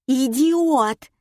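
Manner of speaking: high, outraged squawk; indignant wife. A narrator's reading. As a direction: snap at him in high-pitched outrage. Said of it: "возмутилась жена". (возмущённая жена)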